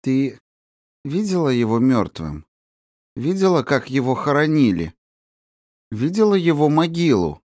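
odd, insistent questioning; lightly eerie interrogation; strange probing voice. Acted. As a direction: press the girl with hidden purpose. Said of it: "каким-то странным голосом выспрашивала".

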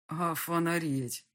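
slow, drawn-out stunned exclamation. Acted. The ghost voice, stunned by the fallen phone, drawn out slowly. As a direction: let the shock stretch the word out. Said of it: "потрясённо проговорил голос".

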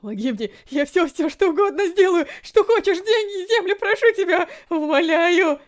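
высоко и громко, отчаянные причитания; захлёбываясь, умолять о пощаде. A narrator's reading. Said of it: "причитал старик". (старик причитает перед медсестрой, в панике)

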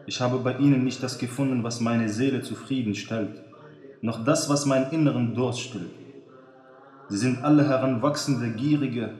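a touch of sadness, understated; lightly sad, tired confession. Acted. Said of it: "mit trauriger Stimme". (leicht traurige Stimme)

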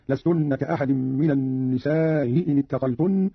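النساء ending in a softened hamza, long-a stretched; eased hamza, madd. Shown as a demonstration. Teacher shows Qalun's reading, النساء eased with madd. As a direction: stretch النساء, glide lightly over its hamza into إن. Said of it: "بتسهيل الهمزة الأولى مع المد والقصر هكذا".

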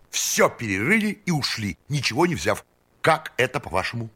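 put-on high, eager voice of an eccentric old count; excited eccentric count. A narrator's reading. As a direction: bubble over with eager excitement. Eccentric count tells the story.

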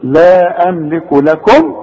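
لكم said slowly with a clear closed-lip m; tajweed demo of the sakin m; slow Quran recitation. Shown as a demonstration. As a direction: stretch out لا املك لكم, showing the m. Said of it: "شوف،".

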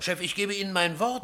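pleading protest. Acted. Reporter swearing to his chief, pleading loudly. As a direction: beg him to believe you.

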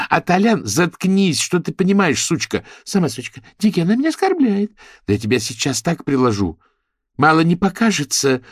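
high, loud bickering; catfight squabble. Acted. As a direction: trade insults like spiteful girls. Girls insulting each other.

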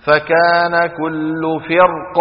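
slow chanted فكان كل فرق, ending on vowelless ق; stop on sukun. Shown as a demonstration. Teacher asks where the kasra went, sukun stop. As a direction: recite slowly, heavy ر, stop فرق dead on ق. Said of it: "لما أقف على فرق بالسكون".

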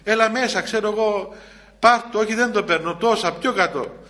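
keen street seller calling a customer in; eager haggling seller. Retold or imitated. An eager Jerusalem seller haggles with a passing buyer, coaxing loudly. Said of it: "θα σε παρακαλεί ... σου φωνάζει".

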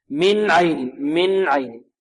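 من عين with a plain n before the ayn; clear noon. Shown as a demonstration. Teacher drills the rule, clear noon. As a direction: sound the n of من without added nasal hum. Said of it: "النون الساكنة بعدها عين".

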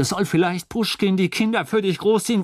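high, loud roaring question; drunken bellow. A narrator's reading. Drunk wife bellows at her husband, high and loud. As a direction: roar it in his face. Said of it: "und brüllte".

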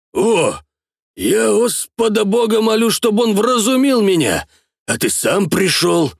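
put-on drunk, slurred and high; slurred speech. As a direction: slur the words like a drunk. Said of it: "заплетающимся языком сказал".

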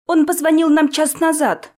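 put-on high, thin boyish voice; thin little voice. A narrator's reading. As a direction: pipe it up thin and small. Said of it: "тоненьким голоском пояснил Бобби Вернон".

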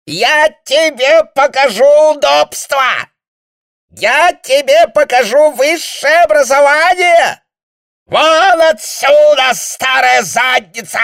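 very high, loud, drawn-out roar; furious shout. A narrator's reading. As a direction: throw them out with a savage scream. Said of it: "заорал он диким голосом".

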